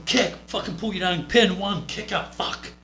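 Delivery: loud, high, bursting exclamations; acted frantic play-by-play; urgent demonstration. Shown as a demonstration. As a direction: fire out each move with match urgency. Acting out urgent match sequence.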